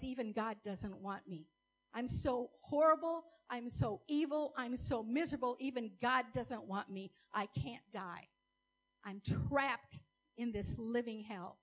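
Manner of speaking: voicing her old despair, rising on horrible; despairing thought. Her old self lamenting before God, in despair. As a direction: pour out the hopelessness. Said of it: "my thought was".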